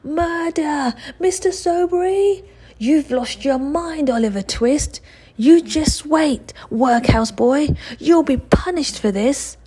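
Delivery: high, loud panicked cries; whining yell for help. Acted. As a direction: wail for the master. Bully yells for help.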